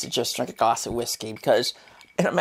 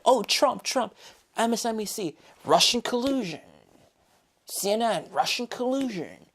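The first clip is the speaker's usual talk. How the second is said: high sing-song news mockery; mocking news voice; 6 semitones higher than usual. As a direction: parrot the cable channels.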